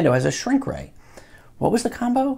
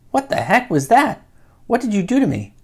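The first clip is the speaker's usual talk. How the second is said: usual speaking voice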